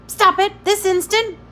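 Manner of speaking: high, loud commanding rebuke; strict woman barking at a tantrum; stern scolding. A narrator's reading. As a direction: scold the child to silence. Iron Woman scolding the boy.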